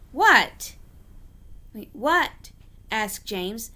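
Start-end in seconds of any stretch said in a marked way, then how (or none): 0.1-2.5 loud sudden startled yelp; startled shout. Acted. James startled by Thomas's secret, a loud yelp. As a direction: jump at the surprise and shout it.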